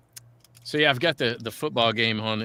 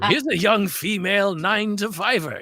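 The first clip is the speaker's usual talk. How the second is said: commercial voice-over; 9 semitones higher than usual. Retold or imitated. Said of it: "it was a TurboTax commercial".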